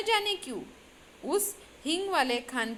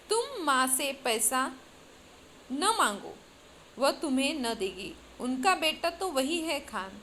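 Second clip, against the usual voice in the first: serious tone. Acted. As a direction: say it gravely, like a wise eight-year-old. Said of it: "बड़े गंभीर स्वर में". (गंभीर स्वर में आठ साल की लड़की)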